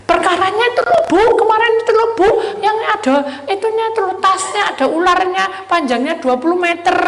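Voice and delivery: high, loud insistent whine; pestering congregant. Retold or imitated. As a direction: nag the pastor with problems. Congregant pestering pastor about problems.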